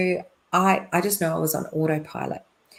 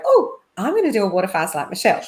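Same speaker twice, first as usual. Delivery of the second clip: breezy mock quote; 2 semitones higher, 6 dB louder, much faster than usual. Mocking a careless copycat.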